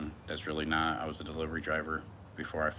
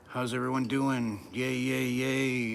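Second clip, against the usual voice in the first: higher, louder cheery greeting; cheery hype; 7 semitones higher, 5 dB louder, slower than usual. Real, not acted. Hyping up the live chat, excited greeting. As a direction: pump up the chat with a bright yay-yay.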